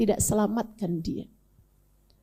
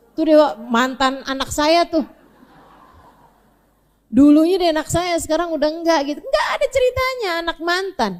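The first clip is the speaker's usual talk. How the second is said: mock boast; 2 semitones higher, 3 dB louder, faster than usual. Preacher voices joking parent.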